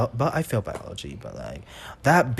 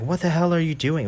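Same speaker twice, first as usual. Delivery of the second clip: mock angry teacher; 5 semitones higher than usual. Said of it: "like, angry".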